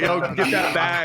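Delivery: a hint of a shouting father; imitating dad yelling. Son imitating his dad yelling at the airport, high mock shout.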